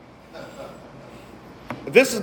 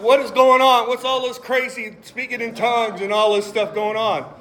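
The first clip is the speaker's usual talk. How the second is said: bewildered crowd question; 4 semitones higher than usual. Retold or imitated. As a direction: ask like a baffled onlooker. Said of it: "He said".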